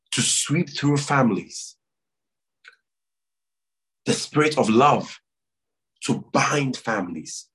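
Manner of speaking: earnest prayer call with long pauses; leading prayer. Real, not acted. Pastor urging the church to pray for families, solemn prayer leading. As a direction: lead the congregation in prayer, phrase by phrase.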